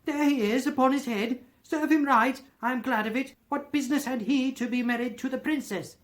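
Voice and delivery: high, loud, earnest excitement; pointing out beloved storybook characters, carried away; extraordinary excited voice. A narrator's reading. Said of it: "in a most extraordinary voice".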